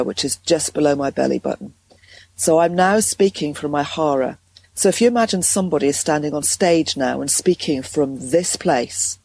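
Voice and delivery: calm and solid from the hara; grounded voice. Shown as a demonstration. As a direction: speak from the belly, rock steady. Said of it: "It feels very grounded".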